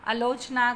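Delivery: "आलोचना" with a short first vowel; mispronounced demo. Shown as a demonstration. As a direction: say "आलोचना" as a-lo-chna. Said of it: "आलोचना गलत है". (अशुद्ध उच्चारण: "आलोचना" को अलोचना)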